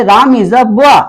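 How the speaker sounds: very slow, each word spaced for writing down; slow dictation. Shown as a demonstration. Teacher reads example sentence slowly. (बहुत धीरे, शब्द-शब्द बोलकर)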